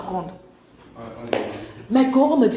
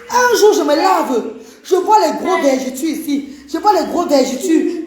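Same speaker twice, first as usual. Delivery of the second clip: laughing; 6 semitones higher, 4 dB louder than usual. Retold or imitated. Retelling discovery, laughing.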